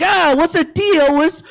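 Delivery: a hint of Seinfeld; mock Seinfeld. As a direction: drawl it like an old-school observational comic. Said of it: "Seinfeld could tell it better".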